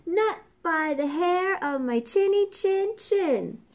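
high squeaky little pig voice; squealing pig. A narrator's reading. Little pig refuses the wolf in a high squeal. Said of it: "squealed the little pig".

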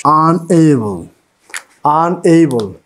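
"Unable" opening on a long "aan", falling; teacher's careful model of "Unable"; pronunciation demonstration. Shown as a demonstration. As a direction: sound out "Unable" with a stretched first vowel. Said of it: "when we pronounce unable".

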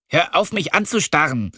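high, sharp order to stop; annoyed snap. Acted. Lilly, feeling watched in bed, snaps at him to stop. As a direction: call him out for staring.

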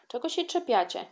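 put-on a girl tells off her classmates, indignant. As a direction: fend them off, offended. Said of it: "oburzyła się".

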